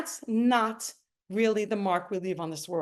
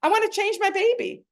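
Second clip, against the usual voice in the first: retold crying plea; 12 semitones higher, 3 dB louder than usual. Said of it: "And I'm crying like a lunatic".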